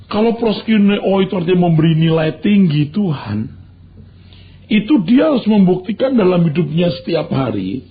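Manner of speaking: ordinary talk, nothing marked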